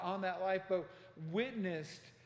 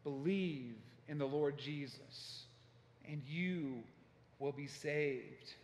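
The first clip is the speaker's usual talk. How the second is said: retold shouting; 3 semitones lower, slower than usual. Male voice above cries of anguish, slow retold shout. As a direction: draw out each phrase of the imitated shout.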